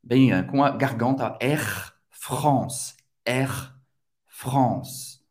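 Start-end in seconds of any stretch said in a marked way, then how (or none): 1.4-5.2 "Air France" with R made in the throat; throaty French R. Shown as a demonstration. Teacher modelling the airline's name, throaty French R. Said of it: "você vai pronunciar esse R bem".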